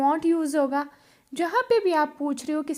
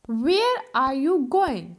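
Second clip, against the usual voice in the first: slow model sentence; 3 dB louder, much slower than usual. Shown as a demonstration. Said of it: "अगर आपने पूछना है कि तुम कहाँ जा रही हो, तो उसको कैसे बोलोगे?".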